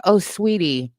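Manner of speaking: exaggerated sweetie-pie condescension; condescending. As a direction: imitate a commenter talking down to a silly child. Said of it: "the condescension, I would get comments like".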